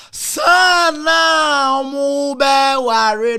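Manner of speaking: high, loud outburst; a sudden loud cry of shock; sudden shout. Real, not acted. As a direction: blurt it out with a shout. Bursting out in the story.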